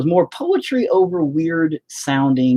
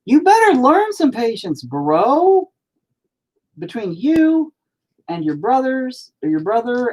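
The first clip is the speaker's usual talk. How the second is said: stern telling-off; 11 semitones higher than usual. Real, not acted. Scolding his son on stream.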